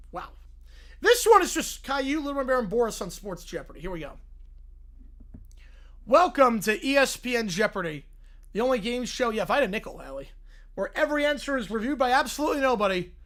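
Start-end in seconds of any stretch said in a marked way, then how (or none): 6.0-13.1 slick announcer voice; host the show with mock pomp; lightly voiced TV quiz host; game show host.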